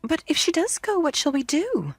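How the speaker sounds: put-on high, anxious children's voice; despair. A narrator's reading. Children despairing about their mother, high and anxious. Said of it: "they cried in despair".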